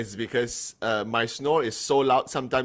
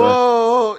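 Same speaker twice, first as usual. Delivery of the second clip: surprised whoa; 12 semitones higher, 11 dB louder than usual. Real, not acted. Imagining sharing a snoring room.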